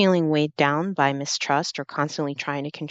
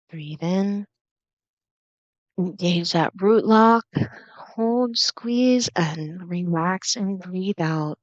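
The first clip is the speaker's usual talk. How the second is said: higher on the hold and squeeze, then slow release; breathwork coaching; 3 semitones higher, much slower than usual. Acted. Meditation guide leading one more breath, breathwork coaching.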